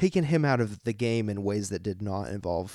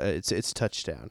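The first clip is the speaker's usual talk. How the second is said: imitating the son; 6 semitones lower, 6 dB quieter, slower than usual. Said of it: "he goes".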